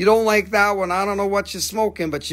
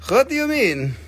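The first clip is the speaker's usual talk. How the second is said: higher, louder what; host reacting to a chat comment; higher mock indignation; 7 semitones higher, 3 dB louder than usual. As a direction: play offended at a comment.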